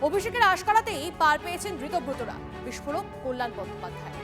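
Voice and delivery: punchy scripted headline read; news headline voice-over. A narrator's reading. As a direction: announce the headlines with dramatic lift.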